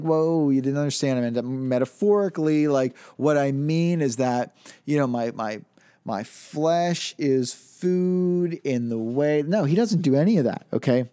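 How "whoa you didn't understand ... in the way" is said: a hint of a hedging Jesus, slowing right down; lightly voiced retreat, stretching the words out; mock backpedaling. Preacher mocks a Jesus who waters it down, drawn-out hedging. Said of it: "It's not like".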